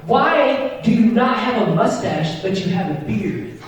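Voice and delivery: mock kid voice, starting high and easing down; kid repeating himself. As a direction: spell it out like an insistent kid. Kid spells out his question.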